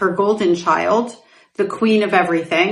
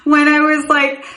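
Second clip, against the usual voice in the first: laughing; 6 semitones higher than usual. Real, not acted. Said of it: "yeah, I'm saying it".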